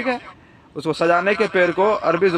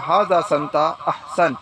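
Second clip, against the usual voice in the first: slow teaching demo; slower than usual. Shown as a demonstration. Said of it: "تو آپ بولیں گے".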